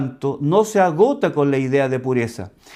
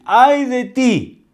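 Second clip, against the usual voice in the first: slow, higher, louder "ay de ti"; a prophet's warning, voice lifted; solemn woe; 8 semitones higher, 3 dB louder, much slower than usual. Retold or imitated. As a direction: pronounce judgment, drawn out. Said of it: "Viene un juicio contra ti".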